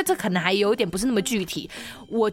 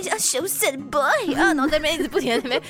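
shy boy impression; 4 semitones higher than usual. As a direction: lightly mimic his bashful act. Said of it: "这用这副调调示人".

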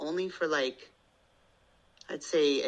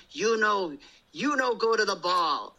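voicing the little daughter; 6 semitones higher, 4 dB louder than usual. Daughter voiced in Barbie play.

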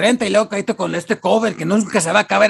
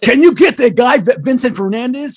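white executive; 7 semitones higher than usual. Acted. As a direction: sound like a clueless Hollywood exec. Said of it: "The white man is on it".

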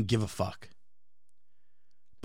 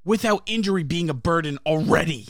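frustrated; 4 semitones higher than usual. Real, not acted. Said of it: "that's not my point".

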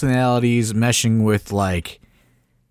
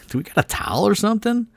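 urgent retold plea; 11 semitones higher, faster than usual. Frantic call for a towel.

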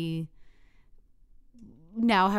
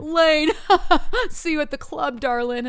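high, loud posh club lockjaw voice; lockjaw accent; 8 semitones higher, 9 dB louder than usual. Retold or imitated. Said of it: "morph into this different human".

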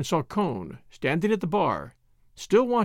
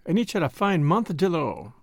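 ordinary delivery, nothing marked

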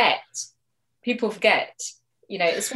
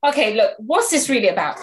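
brighter, louder and direct; direct upbeat tone; 6 dB louder, faster than usual. Shown as a demonstration. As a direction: switch to a frank, upbeat ask. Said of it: "let's switch it and just go".

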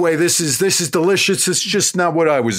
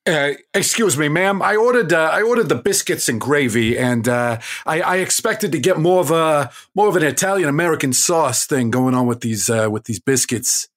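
put-on Queens accent. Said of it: "I'm from Queens".

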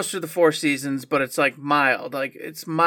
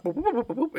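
imitated popping sounds; 8 semitones higher, 5 dB quieter than usual. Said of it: "he'd make those popping sounds".

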